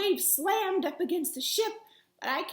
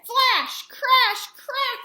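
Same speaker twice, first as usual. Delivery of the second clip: high, loud punchy sound words; dramatic storm words; 9 semitones higher, 10 dB louder, much slower than usual. A narrator's reading. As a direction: hit each word like thunder. Lightning strike sound words.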